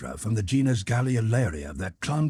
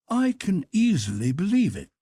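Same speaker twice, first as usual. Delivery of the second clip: higher, deferential manservant voice; Conseil the servant; 10 semitones higher, 3 dB louder than usual. Acted. Servant Conseil respectfully objects to his master, in a higher voice. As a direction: play the polite valet objecting gently.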